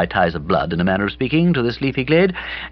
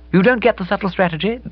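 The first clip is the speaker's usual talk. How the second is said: put-on higher, brighter girl's voice; Bobby's voice; 12 semitones higher, faster than usual. A narrator's reading. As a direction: play Bobby, lively and breezy.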